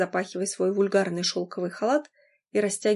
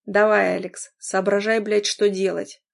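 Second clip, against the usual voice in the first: urgent; 5 dB louder than usual. Acted. Urging himself in panic.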